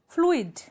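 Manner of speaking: फ्लूइड in two beats, floo-id, falling pitch; separate vowels. Shown as a demonstration. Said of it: "separately pronounce किए जा रहे हैं". (फ्लूइड को फ्लू-इड, दोनों स्वर अलग बोलें)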